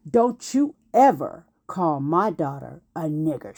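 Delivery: low, deliberate retold warning; firm, controlled reprimand; stern warning. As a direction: imitate a protective mother laying down the law. Mother confronts the neighbor.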